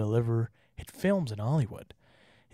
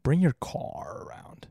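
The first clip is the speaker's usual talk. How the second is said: slow whispered line with a hard r; mock American car; 3 semitones higher, slower than usual. Shown as a demonstration. Slow whispered mock American line. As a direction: whisper it like a Brit faking American. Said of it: "they always say it like that".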